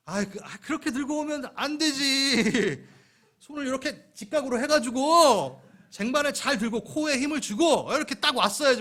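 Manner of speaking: hammed-up lecture on how to carry a tray; lecturing know-it-all. Preacher mocking a lecturing churchgoer, loud and high. Teaching gift lecturing the waiter.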